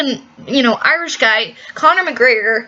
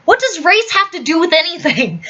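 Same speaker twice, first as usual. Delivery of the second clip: incredulous retort; 5 semitones higher than usual. Retold or imitated. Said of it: "the father goes".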